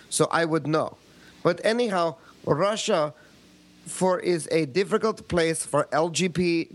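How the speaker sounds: lightly put-on Russian accent reading an email; a hint of a Russian accent; mock Russian accent. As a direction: read it like a Russian, hammed-up. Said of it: "do it in a Russian accent".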